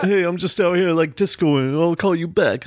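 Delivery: lightly voiced Travolta swagger; half-hearted disco guy voice; bad John Travolta impression. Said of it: "some bad, like, John Travolta impression".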